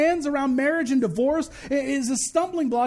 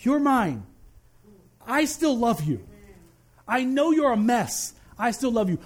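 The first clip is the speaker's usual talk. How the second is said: God speaking. Acted. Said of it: "he still goes".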